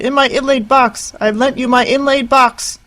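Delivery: high, loud indignant cry; screaming. Acted. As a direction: shriek it, outraged. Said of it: "screamed Harriet".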